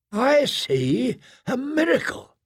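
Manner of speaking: high, drawn-out declaration of wonder; awed proclamation. Acted. Bishop rises to hail a miracle, high drawn-out proclamation. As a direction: proclaim it slowly, pitched high.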